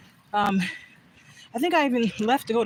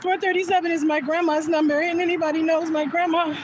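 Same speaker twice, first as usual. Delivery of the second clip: getting emotional; 3 semitones higher than usual. Real, not acted. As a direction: voice rising and slowing as tears come. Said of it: "okay, I'm getting emotional".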